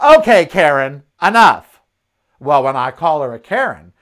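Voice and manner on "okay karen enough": louder, firm put-down; snapping back at an annoying stranger; fed up. Retold or imitated. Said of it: "And I'm like".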